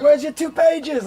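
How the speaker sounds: high, slow mock African accent; crazy African accent. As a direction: repeat it slowly in a high imitated African accent. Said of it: "they got this crazy African accent".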